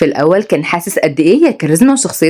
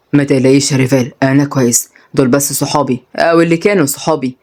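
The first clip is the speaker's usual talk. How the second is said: put-on lower, calm reassuring young man; lightly voiced, lower to soothe her; young man Rayan; 4 semitones lower than usual.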